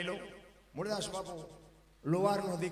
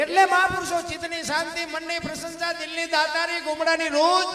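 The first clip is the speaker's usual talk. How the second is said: high, loud listing of virtues; preaching at full force; 7 semitones higher, 10 dB louder than usual. Acted. Preacher listing the saints' gifts, loud and high. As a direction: build each phrase up to the crowd.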